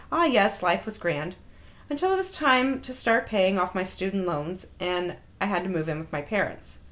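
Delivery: measured, wry read-aloud of a personal story; story narration. A narrator's reading. Host reading out an embarrassing dating story, measured narration. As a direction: read it out neatly like a written memoir.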